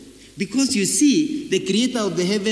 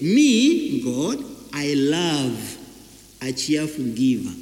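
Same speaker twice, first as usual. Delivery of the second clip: voice of God; 5 semitones lower, 4 dB louder, slower than usual. Acted. Preacher voicing God.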